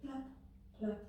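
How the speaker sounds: short, popped plops; little sound-effect plops; imitated butter sound. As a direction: imitate butter plopping in the pan. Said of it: "that's the sound of the butter".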